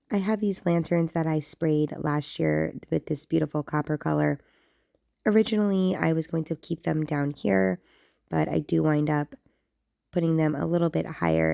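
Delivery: hoarse voice from losing it; raspy voice. Real, not acted. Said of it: "it's definitely a little on the raspy side".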